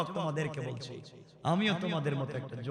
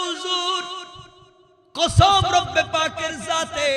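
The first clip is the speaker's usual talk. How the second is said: high, loud chanted oath; slow, ringing high outcry; crying out; 14 semitones higher, 12 dB louder, much slower than usual. Retold or imitated. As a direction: belt out the youth's retold cry on a high note. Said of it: "চিৎকার করে যুবক বলতে যে".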